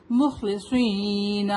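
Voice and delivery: مخلصین with full "kh" and long "seen"; slow chant of مخلصین, heavy kha and saad. Shown as a demonstration. Teacher models the heavy letters, slow recitation. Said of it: "heavy letter ہے".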